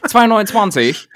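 put-on laughing Hamburg accent, high and loud; imitating Hamburg accent. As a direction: echo the price in a Hamburg accent. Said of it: "in so einen Hamburger Dialekt verfällst".

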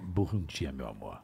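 deep, soft seductive purr; sultry voice. Shown as a demonstration. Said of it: "Você poderia deixar?".

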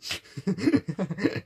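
quacking duck noise. Pretend. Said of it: "Let me try again".

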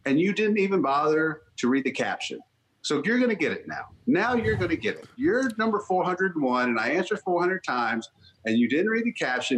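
mildly acted scolding, emphatic and building; half-serious fed-up rant, stressing each charge; exasperated telling-off. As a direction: lay out each grievance with mock menace. Acted rant at repeat questioner.

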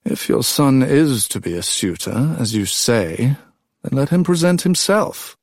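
a hint of a mild, patient king. A narrator's reading. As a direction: calmly invite the boy to speak. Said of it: "Tyndareus was also mild".

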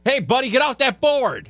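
put-on high, strained old man voice; Biden impression. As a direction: play the tough-talking old pol. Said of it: "Story time with Uncle Joe".

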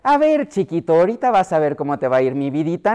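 a touch of honeyed threat to a little one; sweet diminutive talk. Retold or imitated. Parent warning a child in diminutives, mock sweet tone. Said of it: "hablando en diminutivo".

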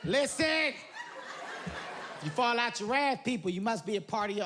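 mock guide briefing, slow and drawn; lightly voiced raft guide; mock river guide laying down the rules; imitating guide. Mimicking rafting guide's briefing.

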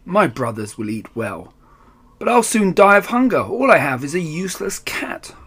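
self-pitying grumble rising to a wail; grumble, then wail about hunger; grumbling. Acted.

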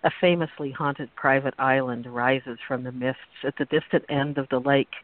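purple prose reading. Acted. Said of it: "I'm going to read it as purple as possible".

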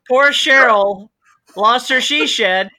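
high, loud giggly delivery; laughing while talking. Real, not acted. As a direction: push words through laughter.

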